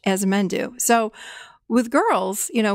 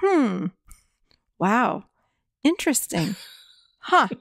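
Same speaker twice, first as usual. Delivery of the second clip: calm neutral interest. Shown as a demonstration. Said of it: "We respond with".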